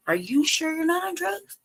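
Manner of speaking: high, laughing mock accusation; laughing imitation of the janitor.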